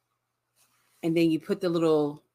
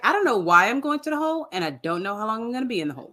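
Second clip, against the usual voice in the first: lightly voiced clueless inmate; mock clueless boyfriend; 3 semitones higher, faster than usual. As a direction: rattle it off playing dumb. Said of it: "He's like".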